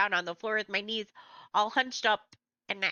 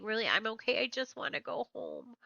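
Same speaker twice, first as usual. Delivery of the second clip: croaky voice; 7 dB quieter than usual. Acted. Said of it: "talking in this croaky voice".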